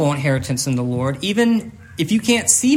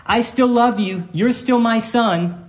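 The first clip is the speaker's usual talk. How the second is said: a father calling across the yard to his son; retold yell; 5 semitones higher, slower than usual. Dad calling to his son across the driveway, mild retold yell. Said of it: "His dad yells out to him".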